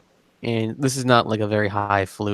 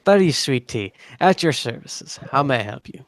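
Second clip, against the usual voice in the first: put-on a rusty, lightly done Northern Irish accent; the innkeeper greets the party in a tentative Northern Irish accent; a hint of Northern Irish, half remembered. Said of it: "I'm trying to get into that accent".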